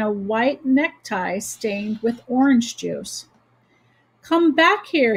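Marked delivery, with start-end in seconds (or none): 4.2-5.2 higher, slightly raised voice; calling out. A narrator's reading. Boy calls Stuart back to his boat, calling out. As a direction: call someone back to you. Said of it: "he called to Stuart".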